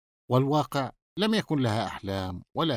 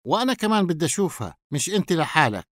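higher, quick insistent protest; stubborn, hurried demand, pitched up; determined; 4 semitones higher, faster than usual. Acted. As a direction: insist on getting your share. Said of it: "قال سامي مصمما".

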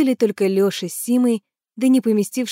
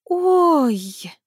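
higher startled cry; sudden oh; 8 semitones higher than usual. A narrator's reading. Tanya remembers something, startled. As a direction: gasp out a sudden realisation. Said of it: "вдруг изменилась в лице".

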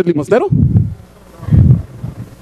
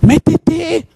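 high, urgent call; urgent command; 7 semitones higher than usual. Acted. Preacher urging the beggar to go inside, high insistent command. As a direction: urge them in with a high-pitched order.

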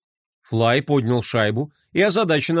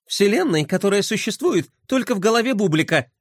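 насмешливо; 5 semitones higher than usual. Acted. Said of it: "хмыкнула Глория".

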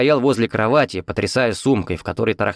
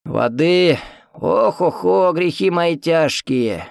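put-on groaning old man; 8 semitones higher, much slower than usual. A narrator's reading. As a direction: sigh it out like a creaky old man. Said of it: "Дедок закряхтел". (громкое старческое кряхтение)

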